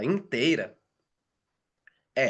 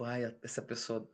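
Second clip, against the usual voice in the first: impatient mutter; 3 semitones lower, 13 dB quieter than usual. Retold or imitated. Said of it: "E tipo".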